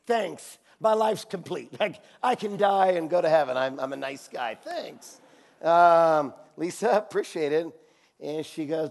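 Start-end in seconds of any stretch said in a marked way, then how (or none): 0.0-7.7 sarcastic thanks. Retold or imitated. Answering Lisa's compliment, light mock gratitude. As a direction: play it dry and sarcastic. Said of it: "You're like".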